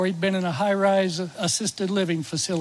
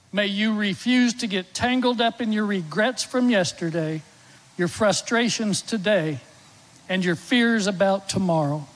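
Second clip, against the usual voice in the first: devotional reading. Acted. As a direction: read it like a prayer over them. Reads a devotional blessing aloud.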